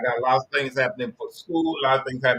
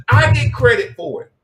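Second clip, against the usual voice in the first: much higher, louder brag; bigger proud boast; 10 semitones higher, 9 dB louder than usual. Acted. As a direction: shout the brag even bigger.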